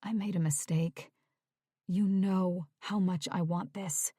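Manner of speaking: soft, whispered plea; pleading. Acted. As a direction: whisper it, begging forgiveness. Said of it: "looked up at her pleadingly".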